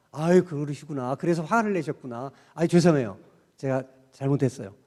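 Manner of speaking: gentle, apologetic soothing; calm the angry person down; soothing apology. Shown as a demonstration. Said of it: "이 말 한마디면".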